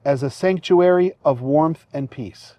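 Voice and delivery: officiant feeding vows phrase by phrase; short phrases with pauses. Shown as a demonstration. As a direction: say each phrase, then pause for the repeat. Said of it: "repeat after me phrase by phrase".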